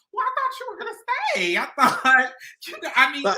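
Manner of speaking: high, fast, whiny retelling; imitating herself pleading with him to stay; mock innocent disappointment. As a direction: play it innocent and let down. Retelling her reply to crying guy.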